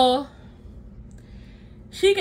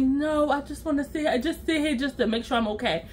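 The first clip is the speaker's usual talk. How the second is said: quiet; 6 dB quieter than usual. Retold or imitated. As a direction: say it quietly, drained. Friend answers weakly, feeling sick.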